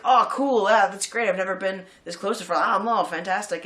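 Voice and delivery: a hint of giddy bassist excitement, starting high and loud then settling; playing up the thrill, gushing at first; mock eager. Bassist thrilled to be near the front line, mock eager.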